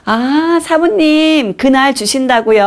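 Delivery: exaggeratedly sweet, very high phone voice; 예쁘게 말하기. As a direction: coo politely to hide the grievance. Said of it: "얘로 얘기한 거예요". (한껏 높인 상냥한 목소리 흉내)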